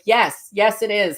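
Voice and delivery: retelling an excited yes; eager agreement. Retold or imitated. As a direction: agree with real enthusiasm. Retold keen agreement with the woman.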